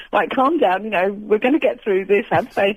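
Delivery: put-on light Liverpool accent, only hinted; a faint Scouse Moses telling the crowd to calm down. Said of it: "Liverpool accent".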